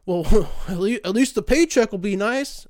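laughing mock chirpy voice; a cheery, laughing know-it-all; mocking a naive friend. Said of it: "they'll say some dumb shit like".

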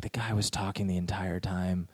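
hushed indignant whisper; whispered complaint. Retold or imitated. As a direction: actress whispering on the way out. Partner complaining after leaving.

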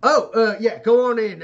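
high, casual holler; calling back to companions. Acted. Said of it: "turns back to you and goes".

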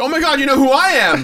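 echoed amazement. Retold or imitated. Jake echoes the same amazement.

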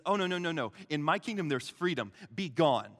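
loud, firm refusal turning into command. Acted. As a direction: order the demons out forcefully. Jesus acted, casting out demons.

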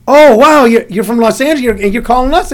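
high, loud amazed gasp of a small-town club owner; excited club owner. Retold or imitated. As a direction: play the impressed club owner, wide-eyed. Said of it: "And they go".

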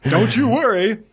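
lightly hammed-up podcast impression; Mike Dooley. Filling in for a dropped co-host, Mike Dooley impression. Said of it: "I was doing my Mike Dooley impressions".

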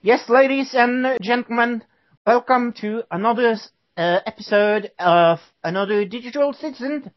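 mock British accent. Host pretending to be British for the joke, mock British accent. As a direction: ham up a jolly English welcome. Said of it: "and I am British".

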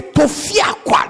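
emphatic, drawn-out "Tofiakwa"; Nigerian-style rejection. Shown as a demonstration. Showing how Nigerians say God forbid, emphatic rejection. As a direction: throw out "Tofiakwa" slowly as an exclamation. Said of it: "That's how they say it in Nigeria".

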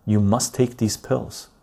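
slow, measured mock-official command; government order. Government ordering a patient to take pills, slow mock command. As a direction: lay down the rule slowly, word by word. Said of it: "what if the government came in and said".

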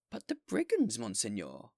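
alarmed mayor. Acted. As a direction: blurt out the danger.

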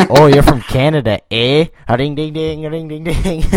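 loud, high-pitched teasing singsong; hammed-up mockery with a dinging jingle; mocking American. Canadian imitating Americans who tease her about home, mocking. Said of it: "And then they're like".

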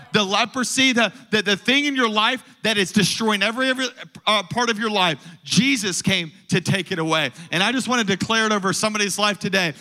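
impassioned sermon building to a rallying call; fervent preaching. Acted. Preacher calling Tampa Bay to give praise, fervent preaching. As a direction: declare it over the congregation with driving conviction.

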